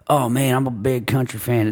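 lightly drawled Texas country fan; a touch of a Texan accent; mock Texas fan accent. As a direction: put on a hint of a Texas fan twang. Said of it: "Solid accent".

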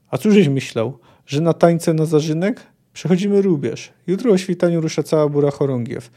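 brisk, forceful briefing to the troops; a touch of a folksy army sergeant; lightly voiced gruff sergeant. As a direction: rouse the men with emphatic bursts. Voices sergeant briefing his men.

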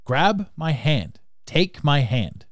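slow, measured butler line; the movie line as it is. Retold or imitated. Host quoting the actual film line, slow and steady. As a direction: quote the real line slowly and evenly. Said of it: "He says".

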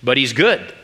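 high-pitched, incredulous storybook retort; acted indignant character reading; Mister Beaver. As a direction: scoff at a foolish question. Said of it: "said Mister Beaver".

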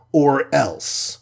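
hero's warning to the alien; threatening. Acted. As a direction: end the ultimatum with a threat. Iron Man's threat.

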